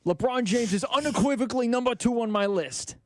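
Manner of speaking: a weak impression of Stephen A declaring. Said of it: "Was that your Stephen A?".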